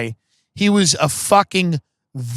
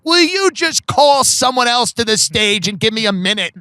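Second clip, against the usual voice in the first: slightly hammed-up, higher-pitched plea; mild mock exasperation; 5 semitones higher than usual. Comic asks host to stall, mild mock exasperation. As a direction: plead with a touch of impatience, slowing at the end. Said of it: "I'm like".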